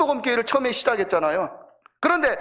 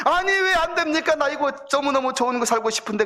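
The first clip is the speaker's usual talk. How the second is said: put-on childlike plea; 5 semitones higher than usual. Child pleads to stay.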